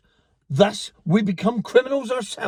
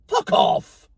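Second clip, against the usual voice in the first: sudden shouted swear. Real, not acted. Ranting vlogger yells at a passerby. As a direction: bark it at someone off camera.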